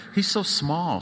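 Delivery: put-on girl telling her siblings about the star, excited; declaring. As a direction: announce it like big news. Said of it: "she'd declare".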